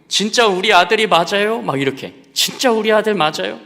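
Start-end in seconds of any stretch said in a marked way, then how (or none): 0.1-1.6 much higher and louder, sobbing question; tearful mother's plea. Retold or imitated. Mother crying, checking on her son with the teacher. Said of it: "막 우시면서". 2.3-3.6 much higher and louder, sobbing question; tearful mother's plea. Retold or imitated. Mother crying, checking on her son with the teacher. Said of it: "막 우시면서".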